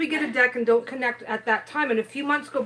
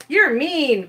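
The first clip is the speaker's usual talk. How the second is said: louder, whiny complaint; mock whine; 2 semitones higher, 6 dB louder than usual. Co-host retells complaining after getting hurt, mock whine. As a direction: whine it like a wronged kid. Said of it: "like, whine".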